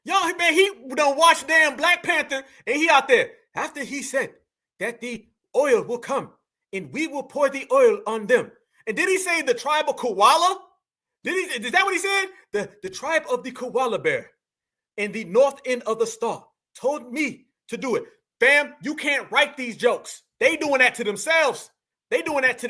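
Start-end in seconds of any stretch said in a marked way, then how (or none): 3.5-8.5 lightly put-on African accent, measured pace; mock African accent. Commentator mimicking the man in the clip, mock African accent. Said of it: "Y'all hear this fake ass accent?". 12.5-18.0 lightly imitated African accent; mock his African accent as a solemn pronouncement. Commentator parodying the clip's tribal tale, mock African accent. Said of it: "Y'all hear this fake ass accent?".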